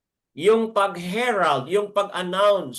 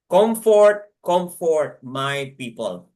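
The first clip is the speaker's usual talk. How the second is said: proclaiming voice; 4 dB louder, slower than usual. Acted. Preacher proclaiming God's commission to his people, loud call. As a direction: ring out the first comfort loud, then settle. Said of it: "commission voice".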